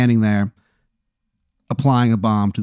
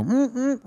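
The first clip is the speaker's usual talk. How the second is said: muffled groan; 13 semitones higher, 6 dB quieter than usual. Retold or imitated. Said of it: "you kinda hear, like, a".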